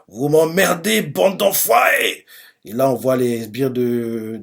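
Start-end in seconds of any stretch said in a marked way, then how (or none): 0.1-2.3 high, drawn-out acted outburst; mock yell. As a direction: stretch the insult as it climbs. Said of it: "Il a crié dessus".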